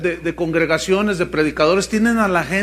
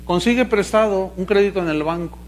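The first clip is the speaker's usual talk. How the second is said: mock televangelist. Preacher imitating a televangelist pushing bank loans. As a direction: urge them to borrow for the offering.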